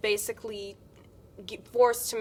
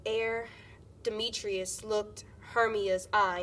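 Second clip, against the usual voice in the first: slow, each stressed word in "Ere Demetrius looked Hermia's eye" set apart; stressed syllables only; much slower than usual. Shown as a demonstration. Student answering the coach with the stressed words, slow. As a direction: speak only the beats, slowly. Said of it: "what are the stressed syllables".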